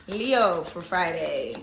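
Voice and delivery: slow and low Leo for Friday; low drawn-out announcement. Acted. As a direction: drop low and stretch each word. Announcing the sign again.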